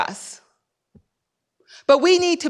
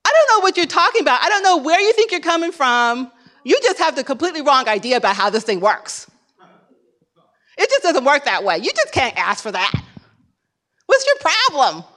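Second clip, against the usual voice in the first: rude phone clerk; 2 semitones higher than usual. Retold or imitated. Clerk scoffing at a caller's loan request, mock scornful. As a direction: scoff at the caller like she's insane. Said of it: "She was like".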